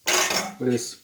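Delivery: breathy whisper of awe over the dish; whispered admiration. Real, not acted. Cook whispering to viewers over the finished plate, hushed. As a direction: hush it, like you can't believe how good it looks.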